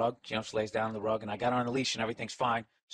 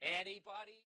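Bueller roll-call; 2 semitones higher, 8 dB quieter than usual. Acted. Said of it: "It was literally the Bueller".

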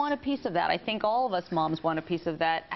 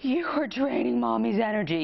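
over dramatic mom. Retold or imitated. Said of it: "You are kind of over dramatic".

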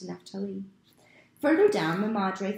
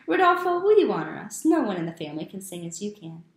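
hearty uncle; 7 dB louder than usual. Acted. Uncle calls on Rodolfo.

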